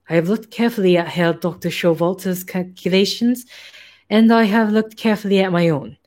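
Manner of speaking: put-on light German accent for the hairless scientist; a hint of a German scientist's accent; German accent, lightly worn. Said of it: "I don't know why this accent".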